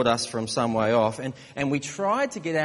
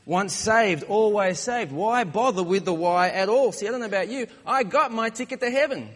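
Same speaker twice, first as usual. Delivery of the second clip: higher-pitched, mock-cocky believer; 4 semitones higher than usual. Smug Christian boasts of a ticket to heaven, mock cocky. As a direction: play a lightly cocky churchgoer. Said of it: "A little bit too cocky".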